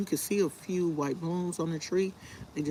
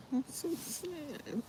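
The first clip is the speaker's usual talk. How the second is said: soft, slow, higher whimper; sad; 11 semitones higher, 6 dB quieter, slower than usual. Real, not acted. Lamenting the magnolia tree to viewers, soft slow sadness. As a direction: let it sag with a tiny sad whine.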